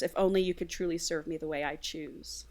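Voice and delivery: low-key, wistful murmur; quiet, private longing; soft murmur. Acted. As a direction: murmur it softly, half to yourself. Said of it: "Robert murmurs".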